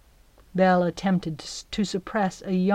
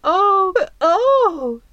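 high, louder breathless gasps; 12 semitones higher, 7 dB louder than usual. Acted. Belle gasps at the golden net, high. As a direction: gasp in wonder. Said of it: "she gasped".

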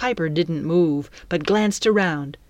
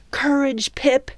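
higher-pitched pep talk to oneself; self-encouragement; 8 semitones higher than usual. Acted. Frightened heroine steels herself before the pirate captain, self-encouragement. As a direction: urge yourself to be brave, voice raised in pitch.

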